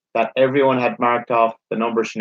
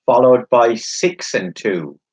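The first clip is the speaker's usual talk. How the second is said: bingo caller; slower than usual. Acted. Number called slowly.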